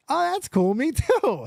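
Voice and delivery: high, eager retold reaction; excited recognition. Retelling finding out she attended his school, excited. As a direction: chime in high and keen.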